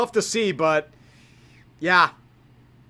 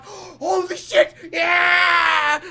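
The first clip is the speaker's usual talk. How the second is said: higher, slow mock excited shout; imitating Burrow's joy; 6 semitones higher, much slower than usual. Joe Burrow reacting to the interception, mock shout. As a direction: play the quarterback thrilled on the sideline. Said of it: "And Joe Burrow's like".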